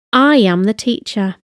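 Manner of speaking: "I" carries the sentence's emphasis; stress on I. Shown as a demonstration. Language teacher showing learners emphasis, stressing "I". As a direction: lean on the first word, "I". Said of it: "with an emphasis on the I".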